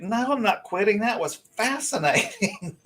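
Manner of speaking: thrilled, not scared at all; telling worried teammates she's thrilled; excited. Retold or imitated.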